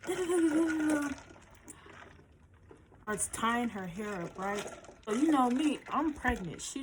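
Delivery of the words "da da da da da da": put-on higher, sneering voice for the girlfriend; mock rude surprise. Girlfriend spotting her at the door, mock rude surprise. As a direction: act out her shocked disgust. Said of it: "So she's like".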